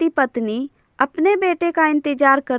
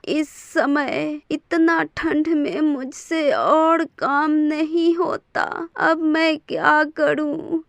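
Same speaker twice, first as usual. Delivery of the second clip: tearful lament. Acted. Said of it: "ऐसा कह राजेश की माँ रोने लगती है".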